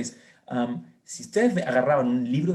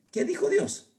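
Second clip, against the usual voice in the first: emphatic question; 13 semitones higher, slower than usual. Real, not acted. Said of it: "rhetorical emphasis".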